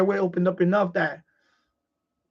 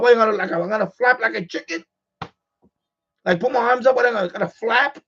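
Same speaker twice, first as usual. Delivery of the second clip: higher-pitched, indignant retort; mock-outraged disbelief, voice lifted; incredulous exasperation; 4 semitones higher than usual. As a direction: retell it baffled by useless advice. Mocking wife's advice while choking.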